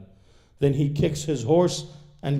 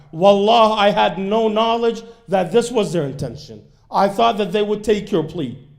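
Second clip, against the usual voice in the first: louder, higher remorseful pleading; earnest loud plea; 7 semitones higher, 7 dB louder than usual. Retold or imitated. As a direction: beg the Imam, voice raised in remorse. Hurr pleading before the Imam.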